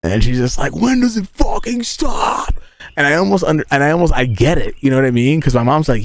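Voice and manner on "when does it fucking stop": high, slow, worn-out mom voice; mock your fed-up mother, dragging it out; high-pitched weary mom wail; exasperated mom. Mom exasperated, retold by son.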